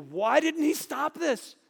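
reader's own anguished disbelief, slow and high; bewildered cry. Retold or imitated. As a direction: drag the question out in disbelief. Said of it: "I just read this and I go".

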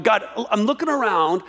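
a lightly voiced, exasperated plea to God; pleading prophet. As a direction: question God in a mild, rising frustration. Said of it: "He's essentially going".

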